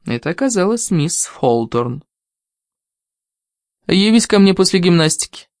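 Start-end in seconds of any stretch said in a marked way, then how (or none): 3.9-5.5 curt order. Acted. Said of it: "резко объявила она".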